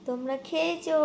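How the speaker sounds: lightly voiced cat greeting the viewers; voicing the cat. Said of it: "বলে দাও".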